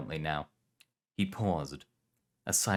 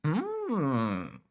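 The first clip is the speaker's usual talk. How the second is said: thoughtful; 9 semitones higher than usual. Acted. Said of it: "Alejandra said thoughtfully".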